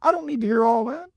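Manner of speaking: lightly voiced retort to a long-winded talker; exasperated inner retort. Stuck at a business hearing a man repeat himself, mildly indignant. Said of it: "I thought".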